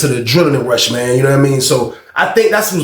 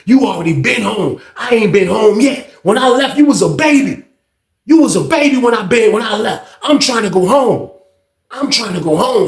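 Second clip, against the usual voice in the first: mildly heated pleading, pitched up; retold argument; 6 semitones higher than usual. Uncle tells nephew he's trying to go home, mildly heated. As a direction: act out an uncle's insistence, voice rising. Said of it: "this is a whole family member argument".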